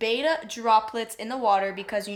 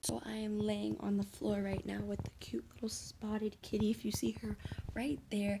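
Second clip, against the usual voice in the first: very low, soft, hushed voice; 12 dB quieter than usual. Lying beside a sleeping kitten, talking really low so she won't wake. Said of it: "I'm talking really low".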